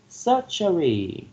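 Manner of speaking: surgery drawn out slowly, stressed on SUR; stress first syllable. Shown as a demonstration. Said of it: "the first syllable receiving the stress".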